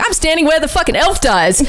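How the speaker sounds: high, laughing disbelief. Retold or imitated. Texting a friend from the beach, laughing. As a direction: giggle through the line. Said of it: "being like".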